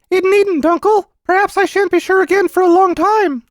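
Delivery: put-on very high, loud child voice; reassuring little boy. Boy easing his uncle's worry, high and earnest.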